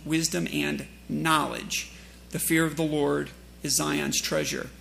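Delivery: slow, measured scripture reading. Acted. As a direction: read the verse with weight. Reads scripture aloud.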